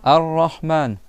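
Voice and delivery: Ar-Rahman with a doubled R and a mid-throat Ha; model Ar-Rahman. Shown as a demonstration. Teacher to pupils, modelling for repetition. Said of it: "Donc dites Ar-Ra".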